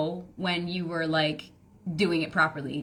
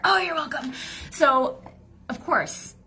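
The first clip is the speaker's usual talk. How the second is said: higher, sing-song mock smugness; smug; 7 semitones higher, slower than usual. Teasing dads after writing their offer, mock smug. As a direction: tease them, pleased with yourself. Jokingly takes credit.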